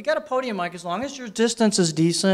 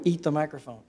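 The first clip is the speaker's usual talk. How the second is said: overloaded mic; 2 semitones lower, 6 dB quieter than usual. Shown as a demonstration. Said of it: "Really overloaded that".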